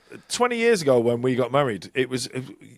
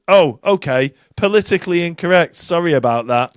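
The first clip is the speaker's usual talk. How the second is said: mock apology imitating a singer; 3 semitones higher, 4 dB louder than usual. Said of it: "the singer said".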